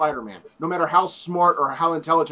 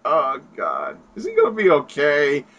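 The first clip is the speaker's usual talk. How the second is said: worried Spider-Man. Retold or imitated. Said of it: "He's like".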